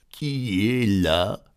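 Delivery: slow, gruff wolf posing; a hint of a big wolf voice. Wolf in bed answering the girl. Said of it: "la grosse voix du loup".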